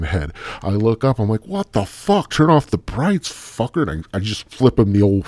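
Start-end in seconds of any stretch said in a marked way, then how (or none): 1.5-3.9 high-pitched acted protest; mock indignant outburst. Abductee to the light overhead, mock indignant. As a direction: act out griping up at a blinding light.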